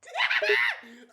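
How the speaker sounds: loud, high burst of laughter; laughing hard at her teasing. Real, not acted. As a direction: crack up out loud.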